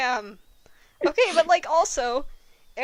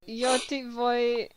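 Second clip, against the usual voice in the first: slow, word-by-word reading of Spanish; halting Spanish; 3 dB quieter, slower than usual. Shown as a demonstration. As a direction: stumble slowly through the Spanish like a learner. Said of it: "Me reading horrid Spanish".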